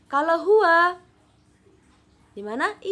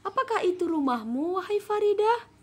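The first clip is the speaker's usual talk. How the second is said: put-on higher questioning girl's voice; Jamila asking; 9 semitones higher than usual. Shown as a demonstration. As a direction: ask curiously as Jamila. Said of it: "kata si Jamila".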